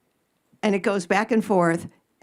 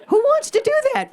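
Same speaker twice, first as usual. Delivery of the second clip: laughing disbelief; 4 dB louder, faster than usual. Real, not acted. Mocking rhetorical question.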